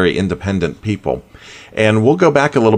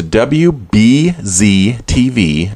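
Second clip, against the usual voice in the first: slowly spelled out; 3 semitones higher, 3 dB louder, much slower than usual. Shown as a demonstration. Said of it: "and that's W Betty Zebra".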